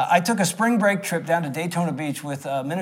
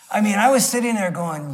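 ordinary delivery

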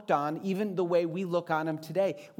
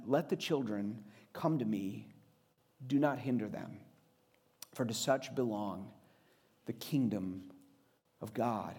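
hushed Jesus quote; 6 semitones lower, 6 dB quieter than usual. Acted. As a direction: let each phrase of the promise settle softly. Jesus quoted after indignant.

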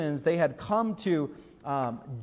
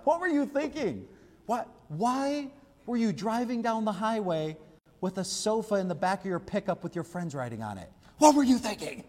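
exasperated parent; 4 semitones higher than usual. Retold or imitated. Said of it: "Has anybody ever said that to your kids".

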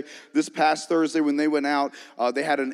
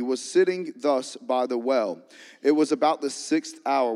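scripture reading. Real, not acted. Reads scripture aloud.

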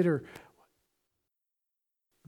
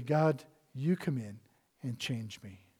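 soft, low closing prayer; gentle hushed plea; 4 semitones lower, 6 dB quieter than usual. Acted. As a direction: pray it quietly.

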